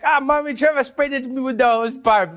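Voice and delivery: high-pitched child imitation; put-on whiny toddler tattle; tattling little brother. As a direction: tell on someone to Mommy. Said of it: "He'd always be like".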